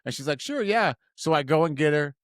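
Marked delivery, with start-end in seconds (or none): 0.4-0.9 high, lightly imitated girl's reply; imitated date. Date accepting his pick-up offer, high imitated voice. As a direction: lift the voice for her agreeing.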